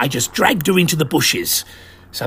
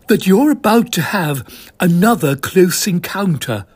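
lightly voiced lady spy, hushed and knowing; Mavis voice; 5 semitones higher, 4 dB louder than usual. Mavis warning Desmond of the landing, lightly voiced.

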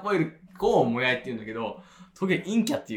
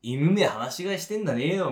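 imitated Ibaraki local complaining; lightly mimicked Ibaraki twang; Ibaraki dialect; 2 semitones higher than usual. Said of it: "茨城弁で言うよ".

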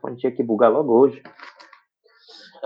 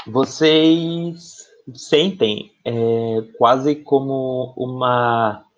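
slow, ominous scene setting; game master narration; much slower than usual. Acted. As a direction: draw them into a creepy place slowly. GM sets a creepy scene.

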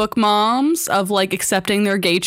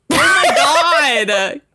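laughing at herself; 3 semitones higher, much slower than usual. Real, not acted. Catches her own mix-up.

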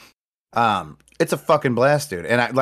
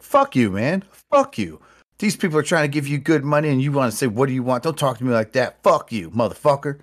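higher, imitated angry screaming; mock screaming; 5 semitones higher than usual. Homeless man yelling at the hot dog vendor, mock screaming. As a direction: rant at him like a drunk. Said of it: "He's just screaming at the guy".

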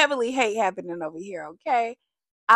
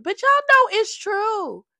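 emphatic appeal; 11 semitones higher, 5 dB louder than usual. Real, not acted.

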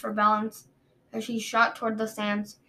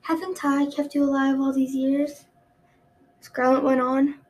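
loud domineering queen; 3 semitones higher, 5 dB louder than usual. Acted. Queen, louder.

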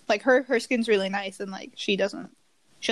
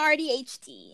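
stretched-out silly noise on H D; odd silly sound; 3 dB quieter than usual. Real, not acted. Showing off to friends on Zoom, silly sound. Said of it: "never make that sound again".

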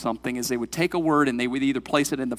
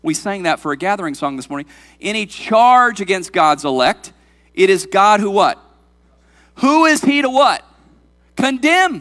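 higher, louder emphatic preaching; forceful scripture reading; 4 semitones higher, 6 dB louder than usual. Acted. Preacher quoting scripture to his congregation, emphatic. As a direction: punch out the verse in measured phrases.

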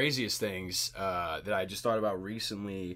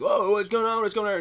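lightly voiced dopey boyfriend, a bit higher and louder; clueless boyfriend; 9 semitones higher, 8 dB louder than usual. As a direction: mimic a clueless guy jogging up. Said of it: "clueless, clueless guy".

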